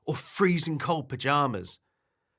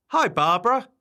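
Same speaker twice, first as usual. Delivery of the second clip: high, loud friendly hail; bright-eyed storybook hello, pitched up; cheery greeting; 10 semitones higher, 7 dB louder than usual. Acted. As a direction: call out to a friend. Friend calls hello in park.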